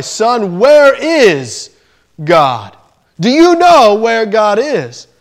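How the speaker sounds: a hint of a stern pastor, rising on where; slow pressing question, lightly voiced; lightly acted big man leaning on a boy; pastor probing. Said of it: "the pastor saw his nervousness".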